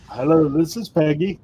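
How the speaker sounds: high-pitched commercial phone agent imitation; Peggy. Quoting a funny commercial, high put-on call-center voice. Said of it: "crack up the Peggy commercial".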